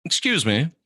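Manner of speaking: breathy whispered aside; a quick hushed excuse me. Real, not acted. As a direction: lean in and whisper it. Aside whisper while watching.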